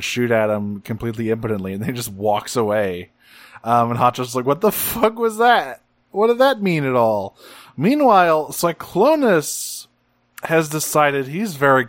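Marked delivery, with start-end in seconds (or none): 4.5-7.4 high-pitched, incredulous mock outburst; baffled indignation. Hot Shot left behind after the fight, baffled. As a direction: squawk it in bewildered protest.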